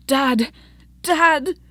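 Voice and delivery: a son crying out to his father; desperate calling. Acted. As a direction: reach for him with your voice. Son reaching desperately for his dad.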